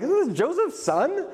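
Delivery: high-pitched incredulous question; mock disbelief. Townsfolk doubting the hometown prophet.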